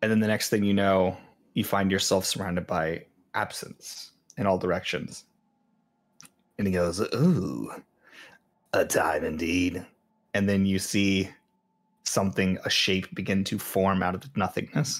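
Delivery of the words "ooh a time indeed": very slow, drawn-out, cackling voice. Narrating to listeners, voicing a cackling figure who speaks: cackling voice. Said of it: "this cackling individual".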